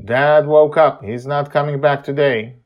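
put-on high, loud young girl; excited child voice. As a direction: call it out like a kid. Child character announces.

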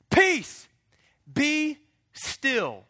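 high, loud command to the sea; commanding rebuke. Acted. Jesus commanding the wind and sea to calm. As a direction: rebuke the storm with authority.

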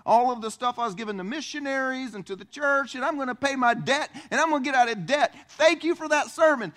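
bright gushing church member, building excitement; eager congregant. Retold or imitated. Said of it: "somebody come to me and go".

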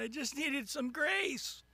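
slow, rising little plea; mock plaintive sinner. Swamped man with his bucket pleads to God, mock plaintive. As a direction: protest slowly, as if overwhelmed by the answer. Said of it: "you find your five-gallon bucket going".

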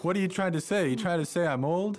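mock offended retort. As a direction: play the boss taking offence, half in jest. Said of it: "get mad".

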